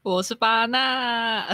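cracked, breaking voice; voice cracking. Real, not acted. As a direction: voice cracks on the name. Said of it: "我有破音啊".

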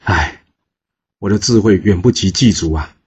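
minister sighs, admitting he is outwitted; sighing. Acted. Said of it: "叹了一口气".

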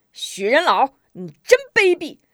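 loud, high outburst of abuse; angry cursing. A narrator's reading. Hot-tempered ally points at the villain, cursing angrily. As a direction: lose patience and curse him out. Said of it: "指着许人大骂".

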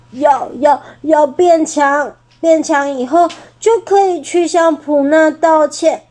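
lifting a rock while close to weeping; tearful effort. Acted. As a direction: push through the tears. T-rex straining, tearful.

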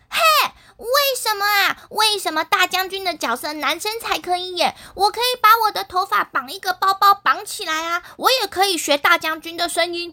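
put-on a touch of indignant girl; understated huff of unfairness; mildly angry protest. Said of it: "木兰姐姐生气地说".

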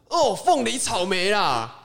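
high, loud hammed-up curse; mock angry. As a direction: swear with fruit names. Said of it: "用水果取代脏话".

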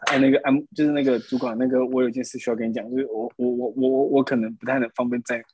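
acted-out stammering excuse; nervous, halting. Employee telling the supervisor he can't drive him, nervous stammer. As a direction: stumble over the words as if nervously confessing. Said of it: "是多紧张， 就手在抖".

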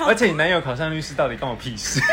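half-shouting through laughter; laughing outburst. Real, not acted. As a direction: blurt it out while cracking up.

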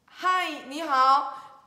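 loud, high, stretched-out greeting; awkwardly hollered storybook greeting; awkward shout. Acted. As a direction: call out a stiff hello, very slowly. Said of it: "很尴尬的喊了一声".

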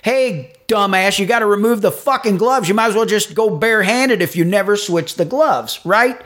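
scolding the cook over the gloves; retold scolding. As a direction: call the cook out, half joking.

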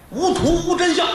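high, scoffing brush-off; mock scornful husband; dismissive husband. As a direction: wave it away, unconvinced. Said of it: "张大愣一摆手".

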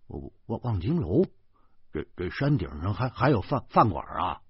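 a hint of mumbling, stumbling over words; mumbling vaguely. Zhou Pangzi, puzzled by Wangjing Tower, mumbling vaguely. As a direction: trail off, unsure what he means. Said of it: "他含糊地说".

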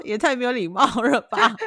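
laughing, half-serious protest; tickled disbelief at the rudeness; amused mock reproach. Recalling own reaction to a rude quiz answer, amused mock reproach. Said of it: "我心里想说".

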